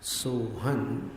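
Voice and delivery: सोहन with the anusvara joined into तव; nasal ending demo. Shown as a demonstration. Teacher shows students how to join the anusvara. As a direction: say सोहन slowly, nasal end merging onward. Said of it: "अनुस्वार का उच्चारण तव में मिलाना".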